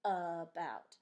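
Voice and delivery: "about" in two separated, loud syllables; split into syllables. Shown as a demonstration. Teacher counting syllables in about, split into syllables. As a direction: say "about" slowly as a-bout. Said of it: "about has two syllables".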